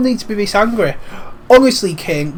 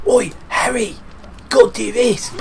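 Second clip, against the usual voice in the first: lightly mocked, higher-pitched lad; Ron; 4 semitones higher than usual. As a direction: imitate a game character calling out. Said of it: "Neither does Ron's voice in Foster Stonehouse. Sometimes it's".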